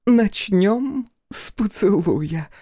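put-on high, slow, loud drunken coo. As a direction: block his way with a tipsy leer. Drunk daughter propositions Crow.

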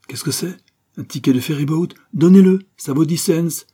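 high exclamation, building to a shout; exclaiming. A narrator's reading. Martin spotting a ferry ticket, exclaiming. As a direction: cry out, then demand it loudly. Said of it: "quand Martin s'écria".

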